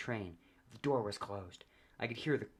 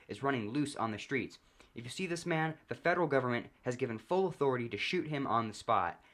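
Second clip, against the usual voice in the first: louder, higher urgent newscaster voice; breaking news anchor; 4 semitones higher, 4 dB louder than usual. Acted. TV anchor warning viewers about the fugitive, urgent loud news read. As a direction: announce it like a TV bulletin interrupting programming.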